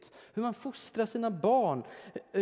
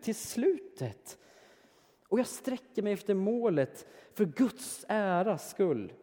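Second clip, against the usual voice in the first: impassioned pulpit delivery with strong stresses; fervent preaching; 4 semitones higher, 5 dB louder than usual. Acted. Preacher voicing Paul's longing to reach the goal, fervent preaching. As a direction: press each longing phrase home. Preaches as Paul, urging imitation.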